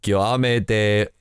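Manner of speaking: slow attempt at a French name; careful French pronunciation, slowly; French accent. Shown as a demonstration. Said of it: "I'm going to horribly mispronounce it".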